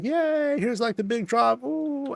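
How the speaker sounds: very high falsetto glee; cheerful riders. Pretend. Riders cheering the big drop, very high. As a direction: squeal with delight. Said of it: "They're like".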